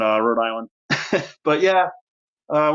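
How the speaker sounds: ordinary talk, nothing marked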